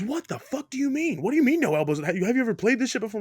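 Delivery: upset opponent, imitated. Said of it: "starts getting really upset".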